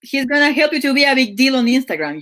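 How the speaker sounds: quick, mock New Jersey life coach pitch; a light New Jersey hustle-coach voice; New Jersey accent. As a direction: hype it up like a Jersey MLM guru. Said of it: "you chose, like, the New Jersey accent".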